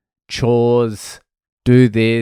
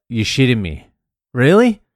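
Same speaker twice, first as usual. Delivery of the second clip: fake outrage; 2 semitones higher, 3 dB louder than usual. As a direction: play-act being shocked and annoyed. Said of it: "trying to make it sound like I was annoyed".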